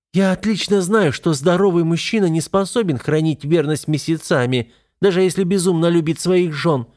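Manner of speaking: high, bold and defiant; bold declaration. A narrator's reading. Wife boldly confronting her husband about fidelity, defiant. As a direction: stand your ground and say it. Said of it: "смело заявляет Лейла".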